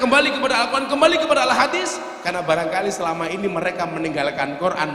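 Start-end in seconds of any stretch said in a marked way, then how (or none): 0.0-2.0 high, loud mock slogan-shouting; raised, high-pitched parody of slogan shouters; imitated shouting. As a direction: shout it like a zealot's rallying cry. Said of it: "mereka teriak-teriak".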